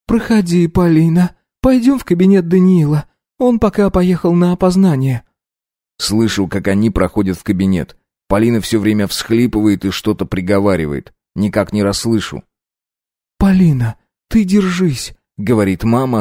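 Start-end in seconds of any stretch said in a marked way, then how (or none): 0.0-5.2 higher, subdued mother voice; hushed grieving mother. A narrator's reading. Mother leads grieving Polina to the study, subdued. 13.4-15.1 higher, tearful mother consoling; tearful comfort. A narrator's reading. Mother consoles Polina while crying herself. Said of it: "а сама слезами заливается".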